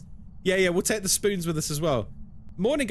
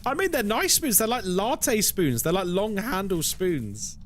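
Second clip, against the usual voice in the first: giggly; 7 semitones higher than usual. Real, not acted. Giggling fit over spoon gift.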